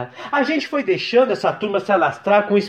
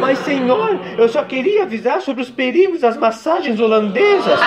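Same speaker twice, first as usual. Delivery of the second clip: Damares voice; 4 semitones higher than usual. Acted.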